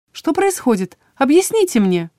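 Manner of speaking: high, pleading demand; distressed patient. A narrator's reading. Patient grabs drow's hand, high urgent pleading. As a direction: plead for an explanation, voice lifted.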